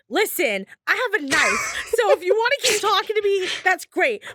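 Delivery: fast, high, half laughing threat; trying to sound tough, laughing through it; shaky bravado. Retold or imitated. Warning creepy man about knife.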